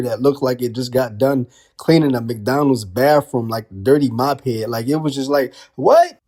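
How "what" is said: sudden high yelp of disbelief; a squeaky, loud "What?"; shocked outburst. Retold or imitated. Fan reacting to Punk's greasy hair, high shocked yelp.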